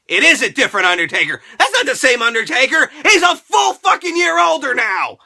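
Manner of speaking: rising into a laughing shout; building to a loud exasperated rant; exasperated retort. Retold or imitated. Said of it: "And I'm like".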